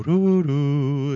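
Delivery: high, loud sung trumpet call; trumpet fanfare. Retold or imitated. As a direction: toot it like a herald's fanfare. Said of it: "a trumpet should sound when they enter the room".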